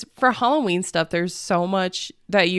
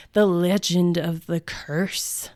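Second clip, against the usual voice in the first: whisper; slower than usual. Acted. Spooky mention of the curse.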